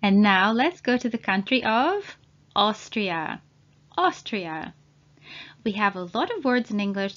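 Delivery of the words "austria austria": Austria, starting with an "O" sound. Shown as a demonstration. Teacher repeats Austria for learners, AU said as "O". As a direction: open Austria on a clear "O". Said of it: "A and U together at the beginning".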